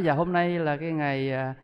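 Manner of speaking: slow, soft, humble invitation to an elder; bow your voice and invite the uncle slowly; softly deferential son inviting an uncle to the memorial; polite invitation. Retold or imitated. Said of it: "Dù đến nhà nói".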